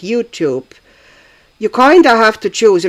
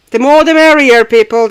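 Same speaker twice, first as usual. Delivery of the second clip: excited; 6 semitones higher, 8 dB louder than usual. Real, not acted. Greeting live chat arrivals.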